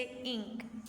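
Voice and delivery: इंक with a short, clipped i; slow teaching demo of इंक; short i in ink. Shown as a demonstration. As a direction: say इंक slowly, keeping the i short. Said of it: "हम उसको short पढ़ेंगे".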